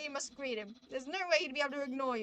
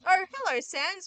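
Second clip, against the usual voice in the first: loud sudden surprised greeting; loud startled hello; 4 semitones higher, 11 dB louder than usual. Acted. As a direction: caught off guard, blurt it out.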